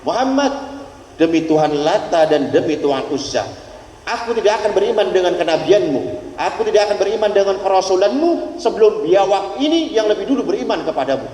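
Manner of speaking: half-acted scornful oath; defiant Bedouin. A Bedouin scornfully swears at the Prophet, lightly acted.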